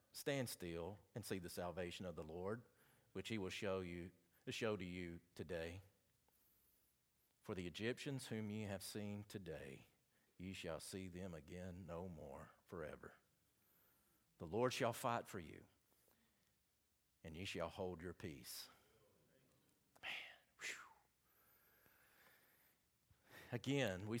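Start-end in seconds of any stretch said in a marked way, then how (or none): 0.1-18.7 low, calm reading, softer toward the end; steady, low Bible reading that fades out; reassuring Scripture reading. Acted. Reads Moses' words. 20.0-21.0 breathless whispered exhale; real hushed whew after the verse; awed whisper. Real, not acted. Overcome after the reading.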